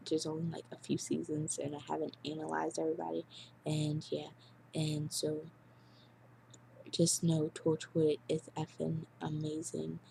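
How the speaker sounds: monotone robot voice; flat robot-like delivery. Real, not acted. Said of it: "I sound like a robot".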